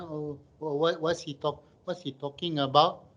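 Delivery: lightly voiced confused footballer; understated bewilderment, asked under the coach's hearing; a touch of baffled player; puzzled Malaysian players. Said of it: "Malaysian football players are sitting there going".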